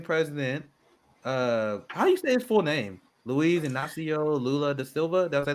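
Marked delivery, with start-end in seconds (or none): 3.2-5.3 careful, slow Brazilian Portuguese accent. Shown as a demonstration. Checking a name's pronunciation with the guest, Brazilian Portuguese accent. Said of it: "that great accent".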